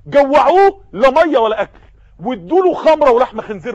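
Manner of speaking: a loud, curt command to the guards; barked order. Acted. Caesar ordering guards to starve him, loud command. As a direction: snap the order like an emperor.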